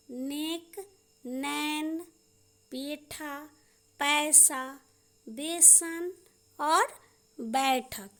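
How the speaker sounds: "नेक, नैन" apart, held ए against open ऐ; vowel contrast drill. Shown as a demonstration. Teacher practising ए and ऐ with pupils, careful dictation. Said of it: "ए और ऐ का उच्चारण".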